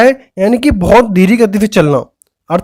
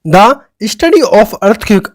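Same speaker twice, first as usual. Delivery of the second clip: very slow, word by word; slow dictation; much slower than usual. Shown as a demonstration. Teacher dictating the phrase to students, very slowly. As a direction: spell it out for students to write. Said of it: "next one word है".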